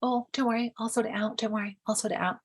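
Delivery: smooth it over fast to keep the peace; appeasing partner. Retold or imitated. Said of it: "the other person might go into appease".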